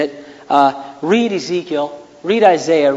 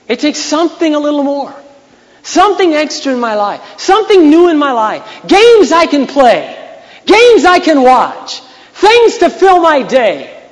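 preacher parodying worldly wants; mock craving voice; 10 semitones higher, 9 dB louder than usual. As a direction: whine it like someone never satisfied. Voicing people's craving for more.

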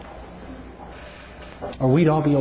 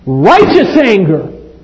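"Righteous" held slow and loud; stress on Righteous; 6 semitones higher, 8 dB louder, much slower than usual. Acted. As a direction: hammer the word Righteous. Preacher stresses the phrase.

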